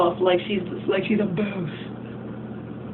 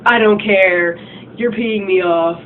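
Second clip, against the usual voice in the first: louder, irritated dismissal; imitating an annoyed guy, louder; mad brush-off; 5 dB louder, slower than usual. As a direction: snap it off like you're fed up. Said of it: "would usually get mad and be all like".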